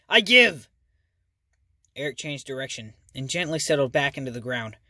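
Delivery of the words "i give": high loud panicked cry; terrified shout. Acted. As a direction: beg in pure panic. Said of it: "shouted a terrified Clay".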